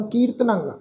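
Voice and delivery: ਕੀਰਤਨੰ with a nasal ending; nasal pronunciation. Shown as a demonstration. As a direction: end ਕੀਰਤਨੰ on a nasal -ang. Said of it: "ਨਾਸਕੀ ਉਚਾਰਨ".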